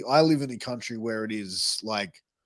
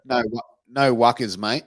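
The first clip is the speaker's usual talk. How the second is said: "no wuckers, mate" in a light Australian accent; easygoing mate says "no wuckers"; Australian sentence; 3 dB louder than usual. Shown as a demonstration. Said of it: "I'll put it in a sentence for you".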